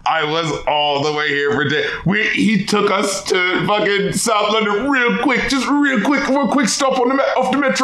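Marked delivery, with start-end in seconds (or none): 2.0-7.8 chuckling through the words; laughing. Real, not acted. Laughing about the quick trip to South London, chuckling. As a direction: tell it while laughing.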